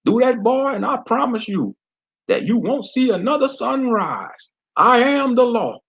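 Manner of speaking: southern sheriff daring Fred to use his eye blaster; southern accent. Acted. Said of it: "he spoke in a southern accent".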